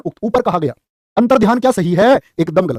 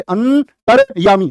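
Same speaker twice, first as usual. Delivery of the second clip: अंतर्यामी drawn out syllable by syllable, very slow; teacher slowly spelling अंतर्यामी for the class; slow sounding out; 2 semitones higher, much slower than usual. Shown as a demonstration. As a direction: spell out अंतर्यामी aloud, stretching every sound. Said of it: "तो कहां बोलोगे".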